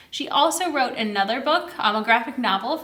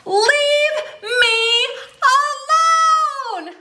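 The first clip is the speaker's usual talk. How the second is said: put-on high, loud cry of an annoyed old woman; old woman shouting; 13 semitones higher, 6 dB louder, much slower than usual. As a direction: shout at the aliens to go away. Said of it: "the old woman shouted".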